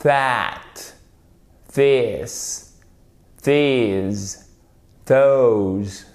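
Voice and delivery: tongue rubbing upper teeth on "That, this, these. those."; each word alone, drawn out, with a hard TH in "That, this, these. those."; voiced TH demonstration. Shown as a demonstration. Teacher shows learners the TH in "That, this, these. those.", careful pronunciation. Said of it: "vous faites riper la langue contre les dents du haut".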